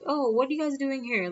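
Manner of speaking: high-pitched imitated aunt's surprise; imitated surprised relative; surprised greeting. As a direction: ask it high, pleasantly taken aback. Aunt surprised to meet family.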